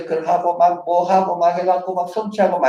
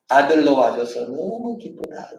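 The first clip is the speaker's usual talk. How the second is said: slow tender blessing; 3 semitones lower than usual. Shown as a demonstration. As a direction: say it slowly like a loving father. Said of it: "너는 내 기쁨이다". (아들로 천천히, 다정하게)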